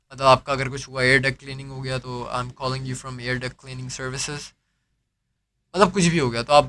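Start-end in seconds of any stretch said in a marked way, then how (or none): 2.3-4.4 slow, soft, polite agent script; lightly voiced phone agent introducing himself; call center intro demo. Shown as a demonstration. Agent demos his call opening to a customer, slow and polite. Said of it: "introduction पहले मैं दे रहा हूँ".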